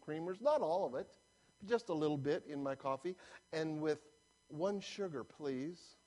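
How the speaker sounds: soft, hesitant drive-through customer; lightly voiced meek customer; lady ordering. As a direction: order softly, fussing over small details. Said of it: "and she's saying".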